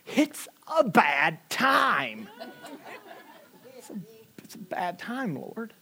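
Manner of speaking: a tired, drawn-out complaint; pleading with God. Retold or imitated. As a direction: plead wearily with the Lord. Pleading to God about timing.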